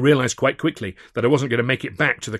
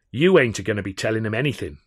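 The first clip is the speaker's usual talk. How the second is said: sneer; 4 dB louder than usual. Acted. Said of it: "he sneered".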